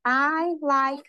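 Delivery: I like to play said very slowly, each word clear; slow counting demo. Shown as a demonstration. Teacher to class, sentence slowed for counting words. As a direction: stretch it out so they can count. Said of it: "How many cards are there?".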